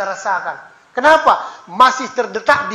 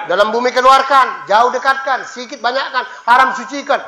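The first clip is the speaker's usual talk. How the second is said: pushy demanding prayer; 4 dB louder than usual. Retold or imitated. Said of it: "Itu maksa namanya".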